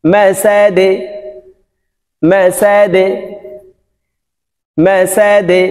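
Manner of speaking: "মা সাদে" with the দ pushed downward; downward qalqala. Shown as a demonstration. Teacher repeating "মা সাদে" for practice, downward qalqala. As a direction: release "মা সাদে" in a short e bounce. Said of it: "নিচের দিকে ধাবিত করে কলকলা".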